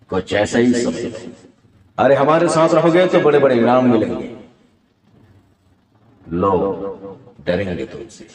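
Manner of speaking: lightly voiced film villain, sinking low; Danny. Villain promising rewards for joining him, Danny impression. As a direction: coax like a gang boss, dropping low at the end. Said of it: "हाँ, तो वो Danny villain के।".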